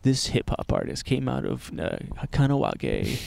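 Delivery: soft earnest radio voice; public radio host. Pretend. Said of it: "CBC Music or CBC Radio".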